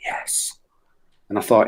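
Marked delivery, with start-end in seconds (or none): 0.1-0.5 hushed soft yes; very quiet. Retold or imitated. A non-verbal lad answering, very quiet yes. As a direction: barely voice it. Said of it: "he just very quietly went".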